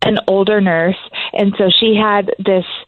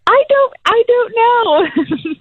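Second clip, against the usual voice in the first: unsure; slower than usual. Retold or imitated. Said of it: "I'm like".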